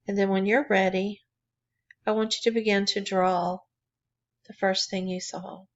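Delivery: calm, even meditation guidance with long pauses; guided meditation. Real, not acted. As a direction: guide listeners gently inward, leaving room between phrases. Leads a drawing meditation.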